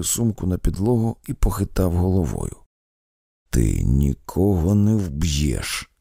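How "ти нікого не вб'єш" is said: hissed. Acted. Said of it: "просичав він".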